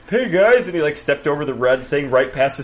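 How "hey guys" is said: high, loud friendly hello; cheery greeting. Retold or imitated. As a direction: call out a happy hello. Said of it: "he's just like".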